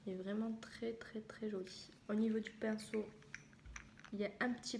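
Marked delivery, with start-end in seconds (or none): 0.1-1.9 soft unvoiced whisper over the polish. Real, not acted. Vlogger whispers to viewers about the pretty polish, hushed. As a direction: breathe it out, admiring. Showing nail polish to camera.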